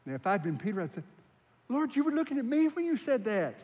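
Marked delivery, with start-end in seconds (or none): 1.7-3.5 high-pitched, wounded objection; mock protest. Imagined Peter complaining to Jesus about being called Satan, protesting. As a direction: protest in a raised pitch, playing baffled.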